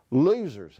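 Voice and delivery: taunting shout into the dark; shouted insult. Acted. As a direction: yell it after the bullies. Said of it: "Henry shouted really loudly".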